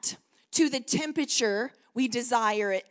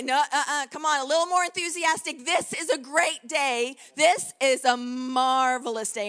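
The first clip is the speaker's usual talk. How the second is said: urging more enthusiasm; 3 dB louder than usual. Retold or imitated. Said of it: "my husband would say".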